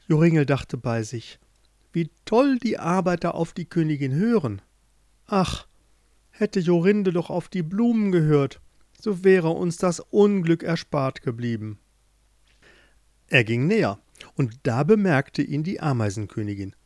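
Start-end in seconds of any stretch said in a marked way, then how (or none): 1.9-11.8 put-on wistful boy thinking. Joringel's wistful thoughts.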